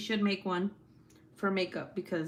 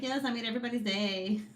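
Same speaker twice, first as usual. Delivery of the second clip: imitating a friend's quick, higher excitement; excited; 4 semitones higher, faster than usual. Streamer reads friend's happy chat message, excited. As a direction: playfully mimic a pleased friend. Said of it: "Gabby's excited".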